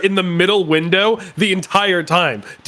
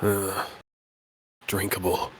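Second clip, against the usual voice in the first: grumpy customer voice; 9 semitones lower, 11 dB quieter, slower than usual. Acted. Voicing game customer.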